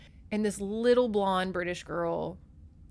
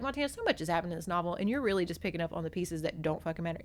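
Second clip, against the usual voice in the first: mock viewers' complaint; 3 semitones lower, 4 dB quieter, much faster than usual. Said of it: "I know y'all are like".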